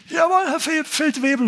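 high, snappy recruit reply; recruit answering. Retold or imitated. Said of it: "oder wie man da sagt".

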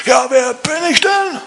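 hammed-up outraged shouting; ranting general. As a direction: rant like an insulted general in the street. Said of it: "schreit der rum".

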